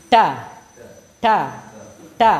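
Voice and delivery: "Ta" in a mock eastern Indonesian accent; Lombok accent. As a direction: imitate the Lombok "ta" habit. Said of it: "Biasanya gimana?".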